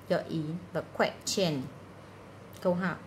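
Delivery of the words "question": "question" with -tion said as "chun"; ch sound in -tion. Shown as a demonstration. Teacher sorting sounds for students, "question" with a ch ending. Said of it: "Ba âm này là ba âm trừ".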